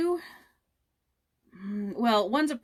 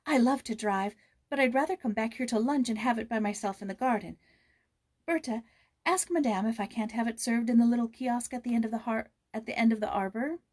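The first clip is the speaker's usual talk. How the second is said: put-on higher eager young girl; 4 semitones higher, 4 dB louder than usual. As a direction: ask sweetly for lunch in the garden. Joyce answering eagerly.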